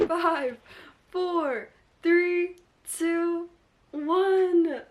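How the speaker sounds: loud, high countdown; excited countdown. Real, not acted. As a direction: count down to the big moment. Countdown to alarm.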